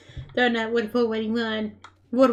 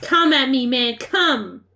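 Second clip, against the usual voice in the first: taunting challenge; slower than usual. Real, not acted. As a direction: call out a cocky challenge. Taunting opponent in game.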